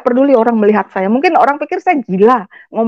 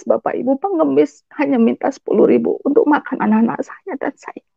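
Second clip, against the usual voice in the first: normal talking voice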